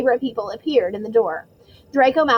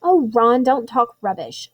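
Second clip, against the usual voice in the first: snapped; slower than usual. Acted. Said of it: "snapped Hermione".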